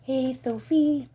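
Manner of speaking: "Sophie" lisped as "Thophie", drawn out slowly. Real, not acted. Owner greeting her dog, "Sophie" lisped. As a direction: say "Sophie" slowly with a cutesy lisp. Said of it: "I instantly have a lisp".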